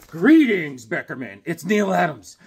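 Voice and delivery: lightly voiced grand apparition; loud opening greeting, dropping away on the name. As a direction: appear with a booming hello. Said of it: "an apparition comes".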